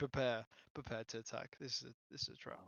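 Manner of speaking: soft, hushed whisper under the breath. Warning the party in character that this is a trap: whispering. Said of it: "I'm just gonna whisper".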